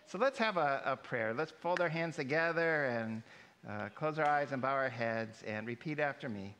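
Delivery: gentle prayer leader voice; sweet patient sunday school. Acted. Leads children in prayer.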